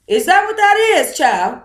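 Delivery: as if it just clicked, exclaiming; surprised realization. Real, not acted. Reading a viewer's comment, surprised and exclaiming. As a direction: pitch jumps way up in sudden realization.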